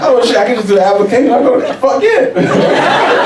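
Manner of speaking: high, quick burst of glee; acted-out elated discovery; excited realization. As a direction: celebrate a lucky loophole. Acting out delighted discovery about application.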